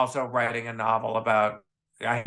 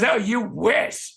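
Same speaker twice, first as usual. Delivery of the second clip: mock dismissive Rose; 8 semitones higher, much slower than usual. Rose voiced in retold phone call.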